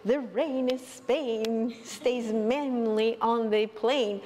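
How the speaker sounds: slow, careful, over-precise "The rain is Spain, stays mainly on the plain"; Eliza's elocution drill. Retold or imitated. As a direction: enunciate "The rain is Spain" slowly like a speech drill. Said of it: "right, to say".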